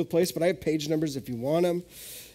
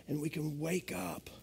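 soft closing; 2 semitones lower, 11 dB quieter than usual. Acted.

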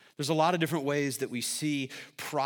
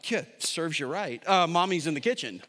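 mock callous dad; 3 semitones higher, 4 dB louder than usual. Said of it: "loving father that I am, I'm like".

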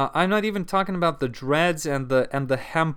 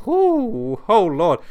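laughing; 6 semitones higher, 6 dB louder, much slower than usual. Real, not acted. Laughing at the gross memory.

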